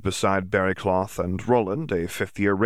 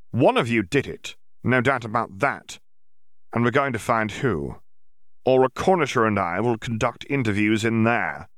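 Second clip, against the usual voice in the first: a commanding official's voice, a bit higher; stern Auror; 4 semitones higher than usual. Acted. Yaxley addressing the gathered students, commanding. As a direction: lay down the law to the room.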